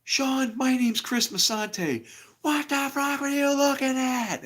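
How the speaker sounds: high, loud stern scolding; retold scolding of the kid. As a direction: demand it sharply. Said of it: "And I go".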